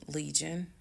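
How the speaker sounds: soft, calm address by name. Retold or imitated. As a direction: say the name gently and evenly. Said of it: "this is the tone I had".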